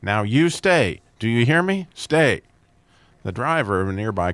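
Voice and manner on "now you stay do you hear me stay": slow, high, firm order to a dog; emphatic. Retold or imitated. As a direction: press each word on the dog, slowly. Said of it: "saying emphatically".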